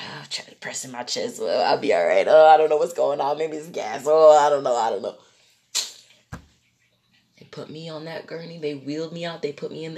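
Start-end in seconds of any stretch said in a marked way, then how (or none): 0.1-5.2 low, groaning self-reassurance; acted worry. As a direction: fret under a heavy, low groan. Acts out a week of worrying.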